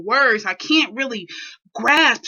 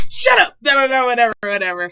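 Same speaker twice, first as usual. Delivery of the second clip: angry shout; 4 dB louder, faster than usual. Retold or imitated. Dad shouting.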